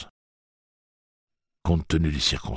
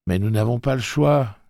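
protesting; 8 semitones higher, 4 dB louder than usual. Acted. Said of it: "dit Eddie".

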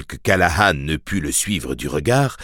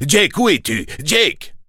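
high, urgent calling; crying out; 10 semitones higher than usual. A narrator's reading. Priest searching the street for the boy, calling out. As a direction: call out high, searching for him. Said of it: "s'écria le père Callahan".

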